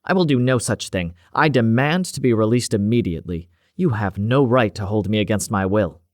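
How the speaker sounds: a stocky, scowling scientist demanding release; bristling doctor refusing to cooperate; indignant doctor. Acted. Detained doctor protests to Cavendish, indignant and angry.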